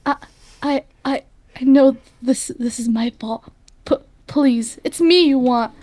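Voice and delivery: frightened stammer. Acted. Boy stammers begging demon.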